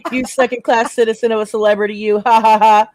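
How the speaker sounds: loud, haughty mock laugh and sneer; pastry chef voice. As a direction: sneer like a snooty celebrity chef. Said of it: "I need to hear this pastry chef voice".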